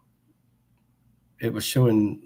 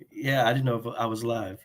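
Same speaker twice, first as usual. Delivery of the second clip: sick voice. Real, not acted. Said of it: "Man, I'm sick, so pardon me".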